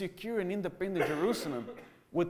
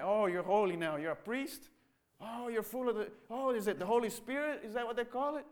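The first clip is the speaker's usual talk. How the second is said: sneering father. Acted. Father sneers at son's new faith.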